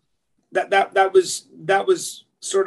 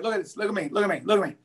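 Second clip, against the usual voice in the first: hushed dying father; 6 dB quieter, much faster than usual. Retold or imitated. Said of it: "his dad goes".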